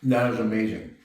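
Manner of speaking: talking with a mouth full of pasta; words round a bite of food. Real, not acted. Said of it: "Sorry for talking my mouth full".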